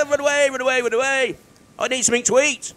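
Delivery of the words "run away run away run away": amused echo of his own panic; laughing repeat. Real, not acted. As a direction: chuckle the words as the panic passes. Repeats it laughing after fleeing.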